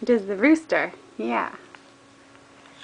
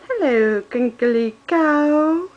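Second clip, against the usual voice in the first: slow drawn-out sing-song; baby talk; 2 semitones higher, 5 dB louder, much slower than usual. Acted. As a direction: stretch cow out for toddler. Cooing toy name to baby.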